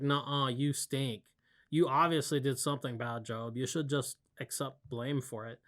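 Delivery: put-on snotty, sneering mean girl. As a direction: taunt him like a catty teen. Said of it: "talking like a mean girl".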